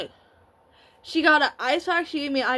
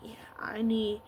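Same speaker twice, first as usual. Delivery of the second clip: crying; 4 semitones lower, 12 dB quieter than usual. Retold or imitated. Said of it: "That's when I started bawling".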